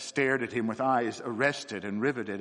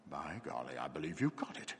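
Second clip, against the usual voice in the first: awed; 8 semitones lower, 11 dB quieter than usual. Acted. Doctor convinced, awed.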